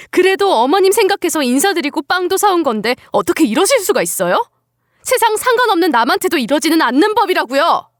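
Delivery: hurt, indignant talking back; defiant outburst. Acted. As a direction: stand up to your mother-in-law, building indignation. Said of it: "빽 소리를 지르며 대들었죠".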